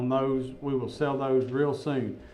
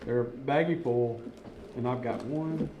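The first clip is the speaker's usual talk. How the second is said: talking through a mouthful; words round a bite of candy; mouth full. Real, not acted. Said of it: "You're talking with your mouth full".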